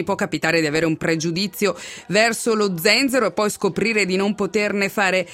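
raspy, hoarse speaking voice. Real, not acted. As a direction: speak through a sore throat. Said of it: "voce, eh, rauca".

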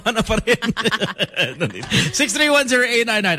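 laughing through the words; giggling while reading the number. Real, not acted. Laughing at caller's answer.

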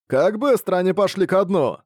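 surprised pirate. Acted. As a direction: blurt it out in amazement. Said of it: "удивился один пират". (удивлённый возглас пирата)

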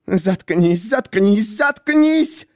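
rising to a shriek. A narrator's reading. Miriam drowning out the narrator, building to a high shriek. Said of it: "Голос её сорвался на визг".

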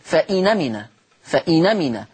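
فإن أمن said "fa-inamina", nun carries the a and the hamza is dropped; moving the vowel to the nun. Shown as a demonstration. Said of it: "ثم تنقل حركة الهمزة ... إلى النون، فتصير".

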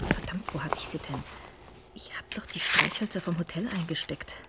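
hushed, tense whisper; anxious whispered muttering; whispering to herself. Acted. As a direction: fumble in the dark under your breath. Alone in the dark, muttering.

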